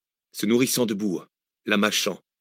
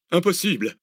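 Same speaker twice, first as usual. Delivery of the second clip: analytic; 9 semitones higher than usual. Acted. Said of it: "analysa Arsène".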